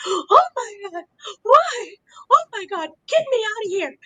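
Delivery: high mock panic without full volume; mock screaming. Fan imitates Bianca pounding on the glass, mock screaming. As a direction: act out a trapped wrestler's panicked plea. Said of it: "She's screaming".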